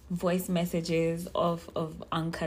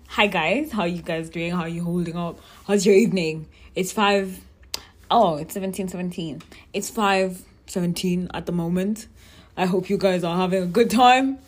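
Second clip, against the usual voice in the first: a lightly lowered, manly voice; put-on male voice; 6 dB louder than usual. Host greets male listeners in a mock male voice. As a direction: play a guy greeting his listeners. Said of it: "That's my male voice".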